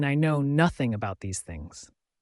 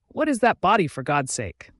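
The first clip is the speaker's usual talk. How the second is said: shocked shout; 4 semitones higher than usual. Acted. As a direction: blurt it out in alarm. Barging in, startled by her.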